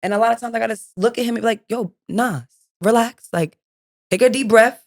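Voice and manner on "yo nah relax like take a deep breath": calming parent. Retold or imitated. Mom calming upset son.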